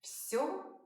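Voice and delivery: very slow, drawn-out repetition; very slow model. Shown as a demonstration. Teacher giving a slow phrase to repeat. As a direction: drag every word for learners to copy. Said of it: "Try doing so now".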